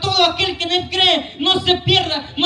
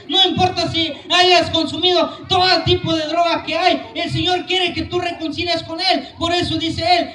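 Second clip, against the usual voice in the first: strong, driving sermon voice, each line pushed to the congregation; fervent preaching. Acted. Preacher urging the congregation to come to Christ, fervent and insistent. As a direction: preach it with full conviction to the crowd.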